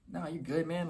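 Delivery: easy, calm brush-off; calm reply to someone who took offence. Shown as a demonstration. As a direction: let it slide, totally unbothered. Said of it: "calm voice, calm demeanor".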